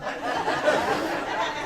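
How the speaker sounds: very high, slow ecstatic shriek; excited scream. Retold or imitated. The new fiancee shrieking at the proposal. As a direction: squeal yes like you just got proposed to. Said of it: "You get excited".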